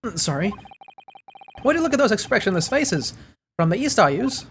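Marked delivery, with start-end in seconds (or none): 1.6-4.5 shaky attempt at an Irish accent, starting high; lightly faked Irish lilt. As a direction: question them as a mock Irishman. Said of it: "I can't do accents very well".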